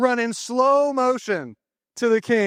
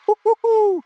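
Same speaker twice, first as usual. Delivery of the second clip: high, loud excited whoop; cheering whoop; 11 semitones higher, 5 dB louder than usual. Real, not acted. Cheering the standing ovation.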